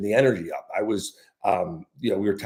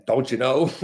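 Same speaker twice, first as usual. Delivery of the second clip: put-on Wisconsin accent; 4 semitones higher, 3 dB louder than usual. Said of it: "as they say in Wisconsin".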